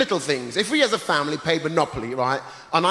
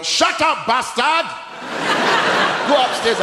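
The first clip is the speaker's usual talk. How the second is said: mock furious yell, much higher and louder; mum yelling; 9 semitones higher, 4 dB louder than usual. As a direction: bark it at the kid like an exasperated mum. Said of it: "My mum would go".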